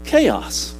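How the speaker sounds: emphatic, driving sermon delivery; rousing preaching. Real, not acted. Preacher urging the congregation toward order over chaos, rousing preaching. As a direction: preach it with rising fervor, punching the key words.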